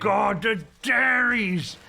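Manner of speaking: slow, high, loud cry of recognition; nostalgic shout. Real, not acted. Nostalgic outburst.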